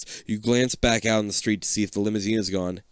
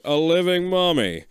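higher, louder, marvelling; doctor voice, a touch louder and higher; intrigued doctor; 6 semitones higher, 4 dB louder than usual. A narrator's reading. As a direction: savour the find. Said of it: "the other doctor says slowly".

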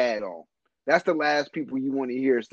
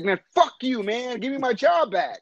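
mock angry retort; 8 semitones higher than usual. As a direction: throw it back at him, half joking.

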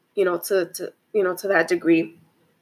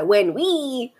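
voice got high; 3 semitones higher than usual. Real, not acted. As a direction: pitch lifting on the last word. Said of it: "my voice got really high".

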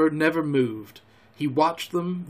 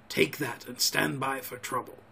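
quiet, low urgent aside; hushed, under the breath; hushed whisper; 3 semitones lower, 8 dB quieter than usual. A narrator's reading. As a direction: murmur the order secretly. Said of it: "he whispered".

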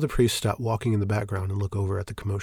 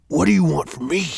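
loud, higher exasperated demand; angry; 8 semitones higher, 7 dB louder than usual. Acted. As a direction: snap back, fed up. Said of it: "Fel asks angrily".

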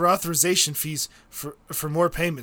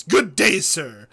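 mock haughty sign-off; 4 dB louder, slower than usual.

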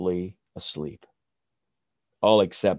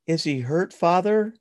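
1 little bunny voice; 9 semitones higher than usual. Acted. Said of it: "Ruthie asks her father".

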